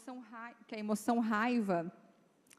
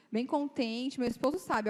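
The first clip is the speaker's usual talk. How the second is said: ordinary talk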